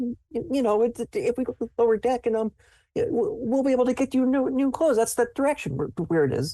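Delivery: scared, frightened stuttering, very high pitched. Storyteller voicing a frightened character, scared and stuttering. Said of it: "he's like really scared".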